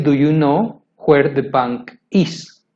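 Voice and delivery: slowed-down correct version, word by word; teacher modelling the right order, slow; slow careful model sentence. Shown as a demonstration. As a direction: spell it out slowly for the learner. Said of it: "Se debe decir".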